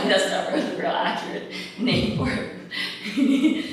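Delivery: laughing while talking. Real, not acted. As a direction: chuckle through the words. Laughs at her own word.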